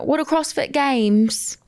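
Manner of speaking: attempted Australian accent, slow and drawn out; bad Australian accent. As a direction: have a wobbly go at Australian. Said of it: "That's supposed to be Australian".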